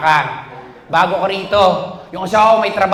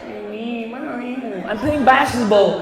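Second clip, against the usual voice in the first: put-on girlfriend call; much slower than usual. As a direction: coo then drag it out. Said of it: "Narinig ko yung girlfriend niya".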